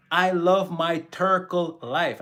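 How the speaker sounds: put-on slow, emphatic Jamaican accent; imitated Jamaican patois, stretched out slowly. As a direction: say it like a proud, unhurried Jamaican. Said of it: "in the Jamaican accent".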